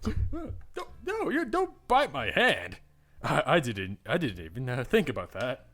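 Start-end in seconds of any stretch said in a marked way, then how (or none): 0.0-2.8 high, slow amused protest; half-laughing, correct the mistake. Real, not acted. Correcting a misread choice, laughing.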